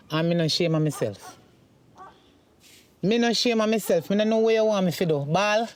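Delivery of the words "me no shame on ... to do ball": defiant. Acted. Mother defiantly answers son.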